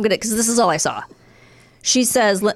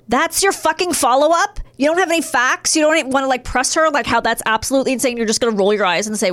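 infuriated rant; 3 semitones higher, faster than usual. Real, not acted. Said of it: "I was so infuriated".

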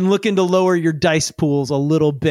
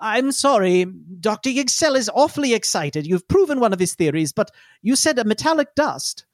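polite, slightly raised voice; smooth over the outburst; apologetic assistant; 4 semitones higher than usual. Acted. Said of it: "Shantikalo cut through".

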